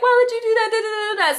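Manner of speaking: high shrill accusing outburst; going off. Retold or imitated. Drunk woman going off at ex, accusing yell. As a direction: attack him with the question. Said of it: "I was going off of him".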